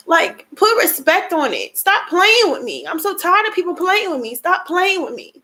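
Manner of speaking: real frustration pushing through tears; angry. Real, not acted. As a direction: snap back at people to stop crying. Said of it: "had to get back angry".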